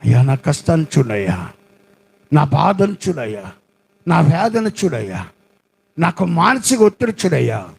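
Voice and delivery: low, pleading prayer to God; a hint of a kneeling man's sorrowful plea; lightly voiced weeping prayer. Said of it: "దేవుని దగ్గర మోకరించి ఏడుస్తున్నాడు". (కొద్దిగా ఏడుపుతో ప్రార్థన)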